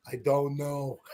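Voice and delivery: said through a laugh; laughing quote. Retold or imitated. Dad retelling son's dazed answer, laughing through it. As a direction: let the laugh spill into the kid's answer. Kid can't recall what Marty said.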